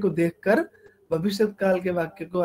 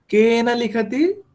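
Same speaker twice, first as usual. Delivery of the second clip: slow teacher question; 4 semitones higher, 4 dB louder, slower than usual. Shown as a demonstration. Teacher poses question to class.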